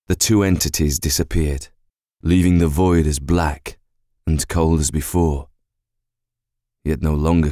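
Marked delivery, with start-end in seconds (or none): none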